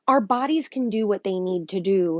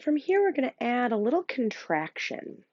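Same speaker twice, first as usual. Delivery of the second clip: hushed breathing guide; guided meditation. Acted. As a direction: coax them to listen to their breath.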